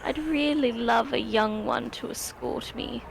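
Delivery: lightly voiced sweet elder, pitch swooping; a hint of a doting grandmother; kindly old character. Old character inviting the frightened goblin, kindly.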